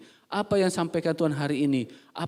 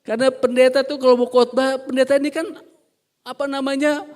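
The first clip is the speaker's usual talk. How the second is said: higher and louder, pulpit force; fiery preaching; 8 semitones higher, 5 dB louder than usual. Real, not acted. Pastor to the congregation, fiery preaching. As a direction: preach it out full.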